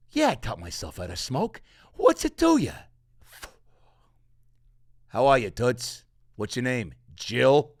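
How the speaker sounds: a hint of a jaded, sarcastic cat; lightly voiced sardonic cat. Cat character's continuing monologue.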